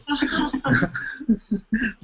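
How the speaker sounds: high burst of laughter; amused laugh; real laugh. Real, not acted. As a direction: laugh at the absurdity. Laughs at own joke.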